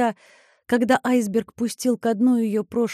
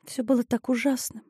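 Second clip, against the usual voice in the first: mumbled; 5 dB quieter than usual. Acted. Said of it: "пробормотала она".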